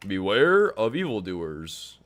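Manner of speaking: gruff tinny action figure. Retold or imitated. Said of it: "I have a action figure that says that".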